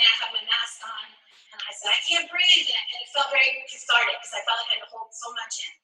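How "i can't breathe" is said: retold scream. Chanting along through a mask at the protest, restrained retold scream. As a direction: imitate your own chanted scream, held back. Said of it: "I started screaming".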